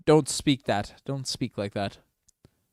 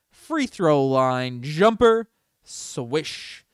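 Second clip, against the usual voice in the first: slow then rising loud call; building play-by-play; 3 dB louder, much slower than usual. Real, not acted. Fan calling a jumper live, building excitement. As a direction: build up to the shot.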